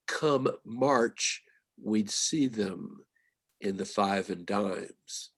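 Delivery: slow, deliberate poetry reading; poem recital. Shown as a demonstration. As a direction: linger on each word like a recited verse. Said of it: "the first line of that poem is".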